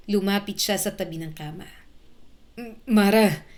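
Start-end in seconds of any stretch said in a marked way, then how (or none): 2.6-3.5 stammered, louder trembling call; a touch of emotional shake. A narrator's reading. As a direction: stumble on the first sound, voice trembling. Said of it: "Nanginginig ang boses niya".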